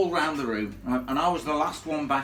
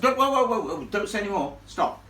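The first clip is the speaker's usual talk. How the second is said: loud, higher, urgent whoa; excited stop; 7 semitones higher, 4 dB louder than usual. Real, not acted. Telling the young lady not to say more, loud and eager. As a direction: cut her off before she spoils it. Stopping her telling the ghost story.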